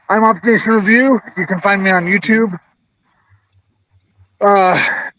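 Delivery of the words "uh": a little winded after walking outside; out of breath. Real, not acted. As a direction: talk while catching your breath. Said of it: "I'm out of breath".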